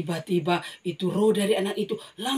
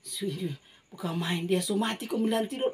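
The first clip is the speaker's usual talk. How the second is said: scoffing mourner; 4 dB quieter than usual. Acted. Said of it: "dia bilang apa".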